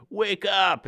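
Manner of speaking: put-on loud, high Boston-accented call; imitated Boston accent. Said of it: "a weird Boston accent".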